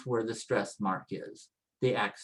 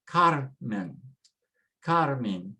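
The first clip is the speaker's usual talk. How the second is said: Carmen with a weighted CAR; stress on first syllable of Carmen; slower than usual. Shown as a demonstration. Teacher models the rule for learners, stressing Carmen on CAR. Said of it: "next to the last".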